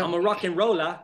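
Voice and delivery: light English accent; lightly put-on English accent. Shown as a demonstration. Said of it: "speaking about the English accent".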